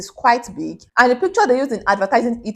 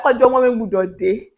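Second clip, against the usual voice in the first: mom's tearful prayer; 3 dB louder than usual. Retold or imitated. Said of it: "My mom was like".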